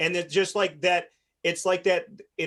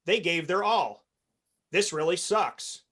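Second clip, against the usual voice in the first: sincere demo. Shown as a demonstration. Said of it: "your language should be".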